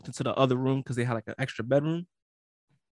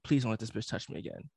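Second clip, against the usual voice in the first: softer, lower, pleading under his breath; desperate prayer; 4 semitones lower, 8 dB quieter than usual. Retold or imitated. Lying in bed praying she won't touch him, soft and pleading. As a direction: beg God quietly.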